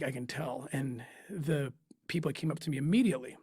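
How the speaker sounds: usual speaking voice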